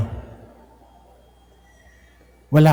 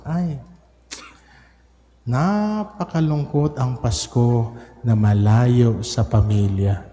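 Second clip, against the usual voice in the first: sorrowful; slower than usual. Real, not acted. Priest laments Christmas away from family.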